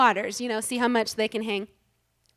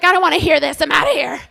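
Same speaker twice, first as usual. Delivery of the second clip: exasperated; 4 semitones higher, 11 dB louder, faster than usual. Retold or imitated. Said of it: "I'm like".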